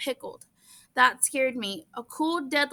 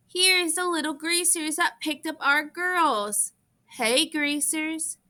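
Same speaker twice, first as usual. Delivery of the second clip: put-on drunk sneering taunt; 4 semitones higher, slower than usual. Drunk Soc taunting greasers.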